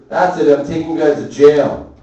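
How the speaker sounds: firm, loud mock threat; imitated threatening dad. Dad threatening fighting kids with jail, loud firm voice. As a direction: lay down the verdict loudly. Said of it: "he goes like this".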